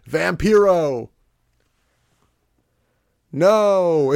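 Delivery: loud drawn-out bellow with a long pause; mock bellowing. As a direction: imitate an over-miked wrestler bellowing in halting bursts. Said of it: "He's just bellowing".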